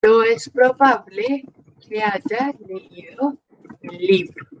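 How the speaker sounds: phrase by phrase, rising before each break. Shown as a demonstration. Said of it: "Por ejemplo".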